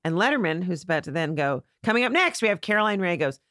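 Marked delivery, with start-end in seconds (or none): 1.8-3.2 higher-pitched announcer lead-in; talk show host. Retold or imitated. Host introducing the next guest, lightly imitated announcer.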